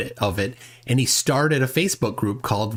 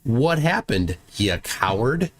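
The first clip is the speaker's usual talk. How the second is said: slow, drawn-out teasing call-out; mock taunt; 4 semitones higher, slower than usual. Host voicing a jeering post for Facebook, mock taunting. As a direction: goad them playfully, stretching the words.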